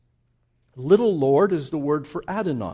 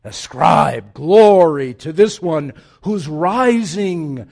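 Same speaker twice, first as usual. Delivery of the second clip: loud summons; 8 dB louder than usual. Acted. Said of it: "He says".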